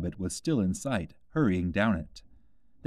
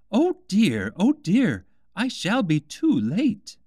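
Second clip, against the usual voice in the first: high, anxious rabbit voice, slowing at the end; a flustered rabbit fussing over the time; fretful white rabbit; 10 semitones higher, 6 dB louder, slower than usual. A narrator's reading. Rabbit fretting to itself about being late, high and anxious.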